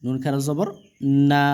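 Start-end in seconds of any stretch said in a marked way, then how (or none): 1.3-1.4 long, steadily held vowel; drawn-out vowel. Shown as a demonstration. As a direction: stretch the vowel out evenly. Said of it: "টেনে পড়তে হবে". (টেনে পড়া, লম্বা স্বর)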